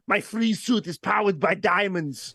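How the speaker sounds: light imitation of an Austrian action star; lightly accented movie-villain line reading; Schwarzenegger as Mister Freeze. Co-host quoting the movie villain, lightly voiced impression. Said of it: "Schwarzenegger's showing up".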